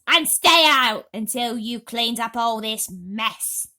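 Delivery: loud, slow harsh order; yelling. Acted. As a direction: bark the order after him. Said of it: "they yelled".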